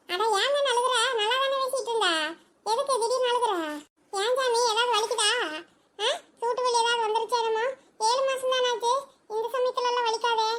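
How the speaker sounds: concerned for a loved one in possible pain; worried questioning. Acted. Worried elder asks crying pregnant woman.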